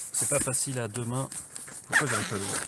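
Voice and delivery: effortful talk while opening a case; straining to open. Real, not acted. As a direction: speak while struggling with a stiff lid. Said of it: "je vais essayer de l'ouvrir".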